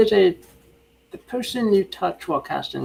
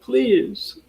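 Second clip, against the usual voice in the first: pleading mermaid; 6 semitones higher than usual. Acted. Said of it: "looks up to Adrian and says".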